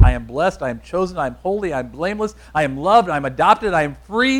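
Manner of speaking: brisk, punchy list; quick run-through. Shown as a demonstration. Preacher running through the list to memorize it, quick and emphatic. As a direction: rattle off each affirmation without pauses. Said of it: "I'm gonna go through this list really quick".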